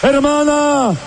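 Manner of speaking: ringing sermon cadence; fervent preaching. Acted. Preacher addressing a sister in the pews, fervent. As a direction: proclaim it to the sister.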